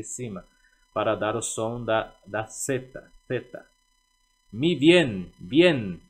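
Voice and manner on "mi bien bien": "Mi bien" with the B softened toward a V; "Mi bien" loud and clear, B as V; b sounding like v. Shown as a demonstration. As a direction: say "bien" with a light V-like B. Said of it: "o B aqui ele tem o som de V".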